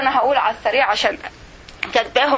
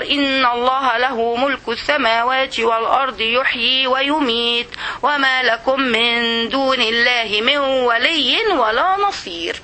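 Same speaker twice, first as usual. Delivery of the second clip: very slow, measured recitation; Quran recitation; 2 semitones lower, much slower than usual. Acted. Teacher reciting a verse from al-Tawba, slow measured recitation. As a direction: stretch each long vowel as in tajweed.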